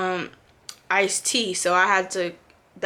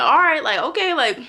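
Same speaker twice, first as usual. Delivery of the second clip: sarcastic okay; 6 semitones higher than usual. Retold or imitated. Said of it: "I'm like".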